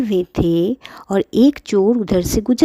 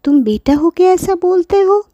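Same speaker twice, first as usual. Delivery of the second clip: put-on higher, pleading old granny voice; grandmother pleading; 8 semitones higher, 3 dB louder than usual. Grandma pleads with daughter-in-law, higher pleading voice. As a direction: beg gently like a hurt grandmother. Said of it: "Pinky की दादी बोली".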